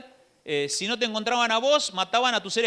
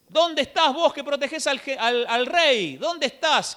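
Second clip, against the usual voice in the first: shouting from the mountain; 5 semitones higher than usual. Acted. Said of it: "empieza a gritar".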